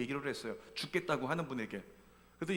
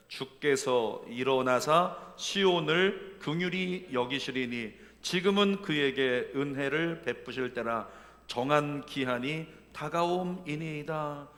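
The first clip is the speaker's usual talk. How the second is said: slow solemn Bible reading; scripture reading; 4 dB louder, much slower than usual. Acted. Pastor reading Psalm verse to the church, slow solemn reading. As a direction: read the verse with reverence.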